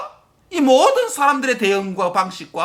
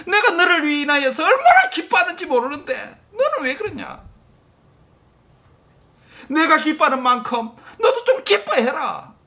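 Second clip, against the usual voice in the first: laughing fatherly voice; 4 semitones higher than usual. Acted. God speaks, laughing.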